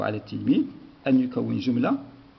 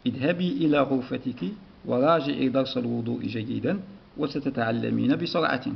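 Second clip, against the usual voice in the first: measured read-aloud of a lesson text; teacher reading a story to the class. Acted. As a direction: read the passage clearly for pupils.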